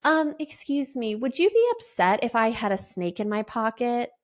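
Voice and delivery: lightly voiced timid little boy asking permission; sweet and quiet. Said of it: "he goes really sweet and quiet".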